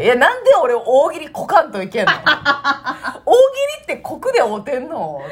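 laughing, complaining mock dialect; imitating Peanuts-san. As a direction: grumble through laughter. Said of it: "みたいな感じで言って".

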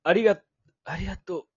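halting, breaking thank-you; choked-up thanks. Shown as a demonstration. Showing a lingering, moved thank-you. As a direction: let the words catch in the throat. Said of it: "みたいな感じの。".

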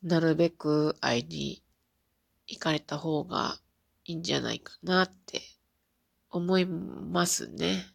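stuffy nose from crying; nasal voice. Real, not acted. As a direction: talk through a blocked, teary nose. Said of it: "めっちゃ鼻声ですね". (鼻声)

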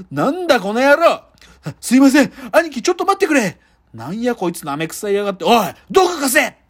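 rough Kansai yakuza threats, barked; menacing gangster quarrel; yakuza movie voice. Acted. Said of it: "ヤクザの映画って".

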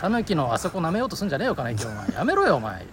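hammed-up telling off; mock angry scolding. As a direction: scold him, half laughing. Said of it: "実況風に喧嘩したらいいんだよ".

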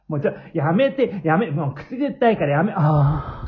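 hammed-up tickle squeal; being tickled. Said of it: "さっきより声大きくなってますね".

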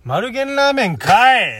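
Kanto speaker's mock Kansai tsukkomi, drawn out on ラー; Kansai-style retort. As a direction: snap back 丸源ラーメンかい！ in put-on Kansai dialect, stretching ラー. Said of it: "関東人が関西弁で突っ込むの". (関西弁風のツッコミ、ラーを伸ばして)

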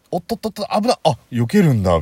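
high, loud whoa-whoa; a tipsy near miss; startled drunk. Retold or imitated. Drunk dodging a pole.

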